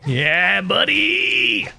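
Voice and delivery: loud, high happy cheer; excited cheer. Real, not acted. Cheering at the flea.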